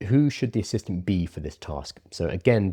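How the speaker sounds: usual speaking voice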